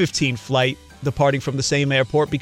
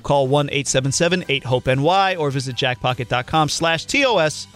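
steady sponsor read-out. Acted. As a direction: read the ad copy evenly. Reads sponsor ad.

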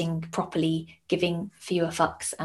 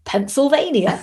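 put-on child's voice; 7 semitones higher, 5 dB louder than usual. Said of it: "He went".

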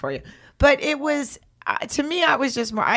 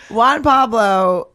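very slow, high, louder stretched Juan Pablo; Angela Bassett impression; 5 semitones higher, 8 dB louder, much slower than usual. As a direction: drag out Juan Pablo like a diva. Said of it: "how did Angela Bassett say Juan Pablo".

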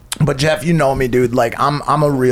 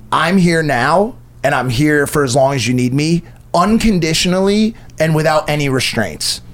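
sincere. Shown as a demonstration. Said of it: "the only response you should ever give".

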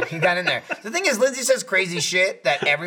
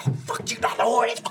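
mock exasperation; 8 semitones higher, faster than usual. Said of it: "Jeremy's like".

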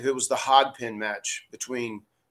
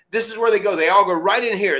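excited; 6 semitones higher, 6 dB louder than usual. Retold or imitated. Owen showing Vince's office.

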